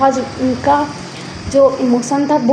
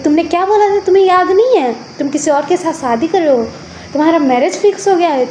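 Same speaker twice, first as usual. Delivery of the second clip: higher-pitched, indignant arguing; heated reproach; 4 semitones higher than usual. Acted. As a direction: throw the old words back accusingly. Former couple argue over breakup. (तैश में आकर शिकायत)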